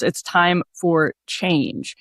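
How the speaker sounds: slow, drawn-out ad tagline; slow quoted ad line. Retold or imitated. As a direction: stretch each word like the ad. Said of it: "his last line there was".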